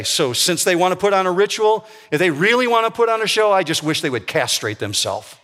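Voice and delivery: sarcastic build, pitch climbing then dropping flat. Retold or imitated. Paul mocking the false teachers, sarcastic. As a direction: sneer the ritual line, land the last blow dead flat. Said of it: "Paul says sarcastically here".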